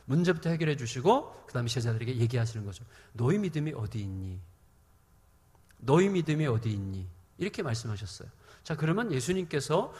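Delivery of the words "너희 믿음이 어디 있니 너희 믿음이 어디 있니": low, calm questioning; gentle reproof. Acted. Jesus asking disciples about their faith, gentle low reproof. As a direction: ask it gently, in a lowered voice.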